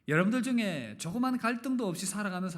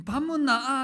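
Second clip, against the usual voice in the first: higher, louder blunt Gyeongsang dialect call; Gyeongsang husband's greeting; 9 semitones higher, 8 dB louder, slower than usual. Retold or imitated. Preacher defending Gyeongsang men, calling out the blunt greeting. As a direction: bark it out like a terse Gyeongsang man. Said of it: "경상도 남자를 또 대변해야".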